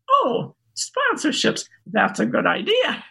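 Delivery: high, drawn-out "oh" settling down; mock dawning delight, starting high; pleasantly surprised realisation. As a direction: act out a new idea dawning. Acting out her sudden realisation.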